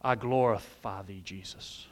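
limp, half-hearted worship words; wrong way. Shown as a demonstration. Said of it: "By saying".

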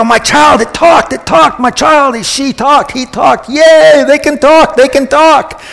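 high-pitched, overjoyed cheering; excited parent. Acted. Parent celebrating a child's first words, excited. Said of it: "you're all excited".

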